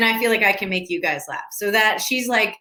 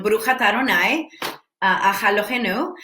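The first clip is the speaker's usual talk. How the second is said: tentative attempt at a Hebrew accent; faster than usual. Shown as a demonstration. Streamer shows fans her attempt at Hebrew, in a Hebrew accent. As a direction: try out a Hebrew accent, unsure of it. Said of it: "That's my accent of ... Hebrew, I guess".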